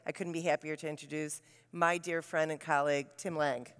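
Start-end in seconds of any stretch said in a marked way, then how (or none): none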